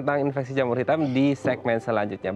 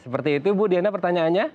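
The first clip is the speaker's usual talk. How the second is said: sweetly polite call-closing host; customer service voice. Acted. Host thanking caller on air.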